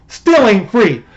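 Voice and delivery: mock Southern good-old-boy accent. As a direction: put on a hammed-up Southern accent. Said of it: "I know that the Southern accent".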